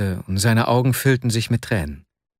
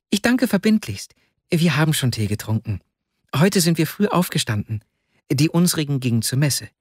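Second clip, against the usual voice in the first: put-on polite young boy; 3 semitones higher than usual. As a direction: chatter politely like a little boy. Voices the ten-year-old boy.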